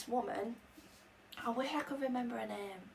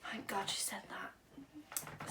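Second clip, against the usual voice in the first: slow breathy whispered aside; relieved whisper; 7 dB quieter, much slower than usual. Real, not acted. Storyteller sharing her relief with viewers, whispered. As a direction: whisper it slowly, full of relief.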